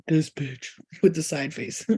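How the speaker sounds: slow, low, scornful spirit voice; judging spirit guides. Retold or imitated. Spirit guides looking down on her, slow and low. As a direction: look down your nose and sneer it slowly. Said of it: "looking down at you like".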